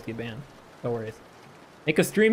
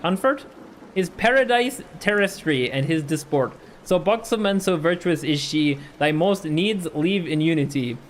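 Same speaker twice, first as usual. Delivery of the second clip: poem reading; 3 semitones higher than usual. Acted. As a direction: read it like a medieval bard, unhurried. Reads Middle English poem aloud.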